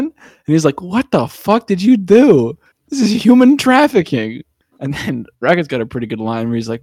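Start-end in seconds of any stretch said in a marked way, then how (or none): 0.8-4.4 high-pitched, drawn-out mock outrage; hammed-up horrified reaction; retold shock. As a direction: act out appalled disbelief, slowing on the question. Acts out appalled Peter at gift.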